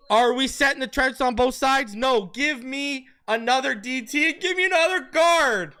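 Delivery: excited. Real, not acted. Hyped about the draft.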